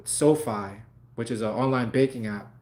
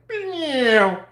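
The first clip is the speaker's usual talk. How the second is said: mocking meow; 11 semitones higher, 4 dB louder than usual. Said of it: "that shit said".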